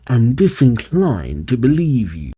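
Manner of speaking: lightly voiced suspicious villain; a hint of a distrustful villain; Eggman. Eggman eyeing Fang's story, lightly suspicious. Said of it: "Eggman eyes him".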